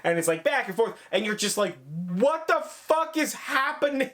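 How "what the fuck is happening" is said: imitating panicked viewer. Viewer's freaked reaction, retold.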